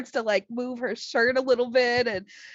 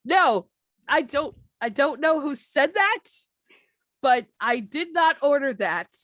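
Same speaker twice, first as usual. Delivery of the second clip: indignant; 6 semitones higher, 5 dB louder than usual. Retold or imitated. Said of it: "she's like".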